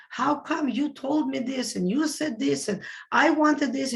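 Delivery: a touch of petulant grievance; mock angry complaint. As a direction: play the aggrieved person griping.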